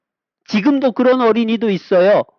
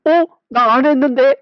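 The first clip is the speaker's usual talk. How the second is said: put-on innocent lying child; 5 semitones higher, 3 dB louder than usual. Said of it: "얼굴에 칠해놓고도 안 했대".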